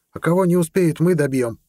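put-on high, cocky girl's voice; a young girl promising to finish them off; fierce girl's boast. Amela finishes her boast to Ned in a high, cocky girl's voice.

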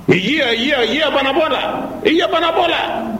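high, fast repeated cry; urgent cry. Acted. Preacher crying out that health matters most, high and fast. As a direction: hammer the word home.

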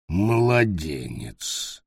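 low, slow goblin growl; slow low creature voice. Acted. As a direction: drag the word out low like a brutish goblin. Goblin voice in story.

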